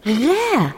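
غا with a clear throaty gh; proud gh sound. Shown as a demonstration. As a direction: say غا with a guttural gh. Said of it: "أستطيع لفظ حرف الغين". (نطق الغين واضحا في غا)

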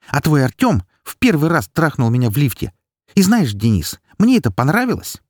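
hurt him with every word; venomous confession. A narrator's reading. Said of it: "Чужим голосом я сказала".

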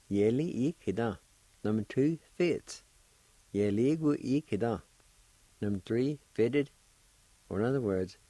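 "ye, li, i, ki, da" each syllable apart, then joined. Shown as a demonstration. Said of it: "I'll pronounce these words one more time".

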